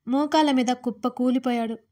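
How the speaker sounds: plain reading voice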